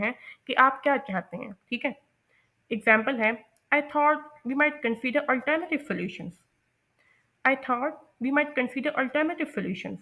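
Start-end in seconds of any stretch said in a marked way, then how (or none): 3.7-6.3 slow, dipping then rising, tentative; fall-rise, hesitant. Shown as a demonstration. Teacher models polite hesitant fall-rise suggestion. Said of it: "pitch fall कर रही है और फिर suddenly rise". 7.5-10.0 slow, dipping then rising, tentative; fall-rise, hesitant. Shown as a demonstration. Teacher models polite hesitant fall-rise suggestion. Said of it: "pitch fall कर रही है और फिर suddenly राइज".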